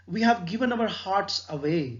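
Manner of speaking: very slow, deliberate recitation; slow solemn poem reading. Acted. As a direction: savour each word of the verse. Reads the sonnet line.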